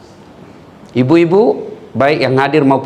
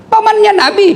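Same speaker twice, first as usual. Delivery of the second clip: emphatic punchline; 4 dB louder than usual. Real, not acted. Punchline answer.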